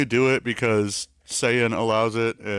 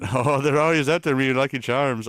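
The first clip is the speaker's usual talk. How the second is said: higher-pitched, badly faked Irish accent; 4 semitones higher, 3 dB louder than usual. Streamer trying Lucky Charms leprechaun on request, weak Irish accent. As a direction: have a shaky go at a cartoon Irish accent. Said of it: "Change it to Irish".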